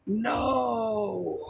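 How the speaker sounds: sharp high cry of no; startled no. Retold or imitated. To the man jumping off the second floor, a high startled no. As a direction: yell no as he leaps from the floor.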